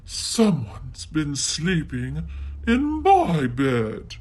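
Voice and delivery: slow, gentle mother bear; Mommy Bear finds her pillows jumbled, slow. Acted. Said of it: "she said".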